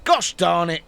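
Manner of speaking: mock frustrated gosh darn; a hammed-up little curse; mild curse. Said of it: "curses Zuckerberg".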